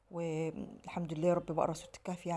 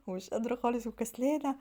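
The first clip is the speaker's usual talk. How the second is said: laughing; 6 semitones higher than usual. Real, not acted. Laughing at her own laziness.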